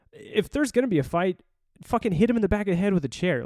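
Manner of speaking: high-pitched incredulous telling-off; exasperated scolding. Retold or imitated. Recruiter scolding colleague who hid, exasperated. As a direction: scold a friend in mock outrage.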